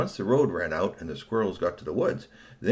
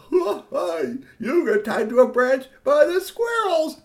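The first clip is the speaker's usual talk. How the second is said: mocking laugh; 9 dB louder, much slower than usual. Curtis laughing at tied friend.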